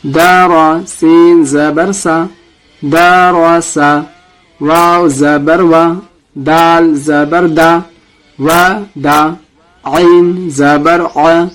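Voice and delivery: slow, deliberate letter-by-letter spelling; slow recitation drill. Shown as a demonstration. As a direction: spell each letter for students to repeat. Teacher leads practice drill. (آہستہ قاعدہ پڑھانا)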